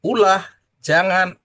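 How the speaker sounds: ulah slow and high, jangan loud; stressed words. Shown as a demonstration. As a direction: pronounce ulah and jangan with weight. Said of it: "orang Sunda nyariosna ulah".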